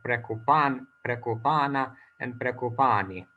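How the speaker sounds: "prekupan, prekupana, and prekupani" each with long stressed -pa-; ending accent. Shown as a demonstration. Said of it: "we find similar accent".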